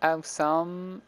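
awesome read in a thick French accent, quietly; French-accented English. Shown as a demonstration. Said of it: "je sais pas mon accent anglais". (accent anglais maladroit à la française)

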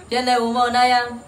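slow, emphatic spelling of "P-N-O"; spelling it out slowly. Shown as a demonstration. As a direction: spell each letter slowly, then sound the word.

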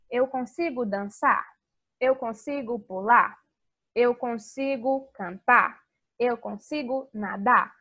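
slow, each question drawn out; slow teaching examples. Shown as a demonstration. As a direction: spell it out slowly for kids. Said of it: "em português a gente fala". (perguntas lentas e claras)

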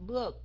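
"book" with the vowel held a little; slightly drawn-out vowel. Shown as a demonstration. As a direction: stretch "book" just a tiny bit. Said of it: "hơi kéo dài cho một chút xíu".

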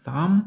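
"thumb" ending on M, no final B; silent B. Shown as a demonstration. Teacher shows the finger word, silent B. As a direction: say "thumb" as thum. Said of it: "теж без бі в кінці".

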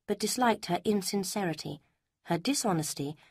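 ordinary delivery, nothing marked

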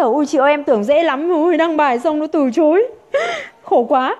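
lightly imitated whining recruit, a small laugh at the end; half-joking complaint to the leader; mock lament. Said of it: "Bắt đầu về than thở".

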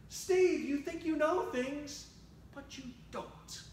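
high-pitched call of the name, softening at the end; fatherly correction. Acted. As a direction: set him straight from a high start, ending hushed. God corrects the preacher, like Nemo's dad.

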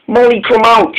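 high call into the dark; lightly voiced engine calling into a tunnel.

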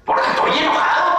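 high, huffy mock protest; acted anger. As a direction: play a cranky child. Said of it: "¿Por qué te enojas?".

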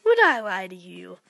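sly whispered question; mock innocent whisper. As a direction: whisper it slyly. Repeat as whisper.

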